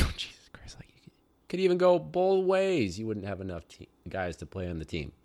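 hushed, disbelieving aside; exasperated whisper. Retold or imitated. Teacher hears only eight players, whispered disbelief. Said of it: "I was like".

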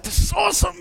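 high, gleeful shout; excited shout. Retold or imitated. Husband cheering by the road at his fake sighting, high and gleeful.

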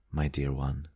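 put-on soft, tender appeal from an old lady; pleading. A narrator's reading. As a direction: plead gently, keeping it soft. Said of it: "the old lady pleaded".

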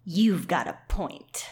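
slow, measured, lightly forceful voice; forceful Rachel. Acted. Rachel the warrior conceding to her friend, mildly forceful. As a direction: say it slowly with a hint of force. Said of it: "She's forceful. That's what I'm imagining".

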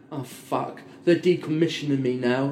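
low, soft, deflated realisation; mock resignation. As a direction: voice a defeated character giving in. Voicing defeated villain's realisation.

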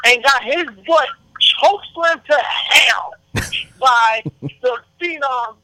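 hyped-up ring announcer style; big drawn-out podcast intro; show host introduction. Real, not acted. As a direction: build up the guest, drawing out key words. Hypes up and introduces guest.

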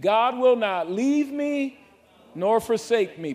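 slow, loud, stress on will; personalized declaration. Shown as a demonstration. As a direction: declare it as your own promise. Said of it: "Personalize it".

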